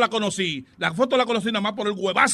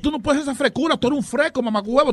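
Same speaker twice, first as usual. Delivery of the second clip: angry scolding; 3 semitones higher than usual. Real, not acted. Husband to man who shared his photo, angry scolding. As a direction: lay into him, outraged.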